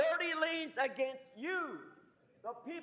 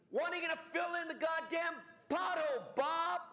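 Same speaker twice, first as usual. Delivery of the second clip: fast, raised angry yell at the council; angry shout; 4 semitones higher, faster than usual. Real, not acted. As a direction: demand it furiously, quick and pitched up. Angry rant at council over pothole.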